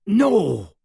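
sharp gasped cry of panic. A narrator's reading. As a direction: gasp it out, pinned down. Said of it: "he gasped".

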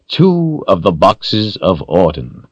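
slow, grand announcement; unhurried villain's reveal; announcing. A narrator's reading. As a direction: present it slowly, with ceremony. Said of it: "Rawl announced".

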